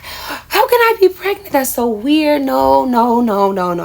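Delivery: high, panicky no no no; reliving the panic of a scared kid; panicked denial. Retold or imitated.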